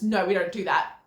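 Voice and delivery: mild mock parental yell. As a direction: bark the rule at a toddler. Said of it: "and just yell at them".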